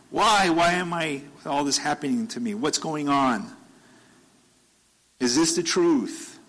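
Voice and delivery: high, searching cries of why; anguished questioning. Retold or imitated. Job asking God why this is happening, anguished. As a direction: question heaven in distress. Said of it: "he starts questioning it".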